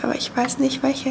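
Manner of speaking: soft morning whisper. Real, not acted. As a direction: whisper so nobody wakes. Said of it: "whispered morning".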